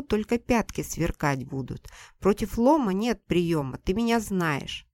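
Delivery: put-on loud, scornful old woman chasing a man off; angry mother-in-law. Mother-in-law yells at Seryozha to get out, loud and scornful. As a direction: bark him out of the yard like a furious mother-in-law.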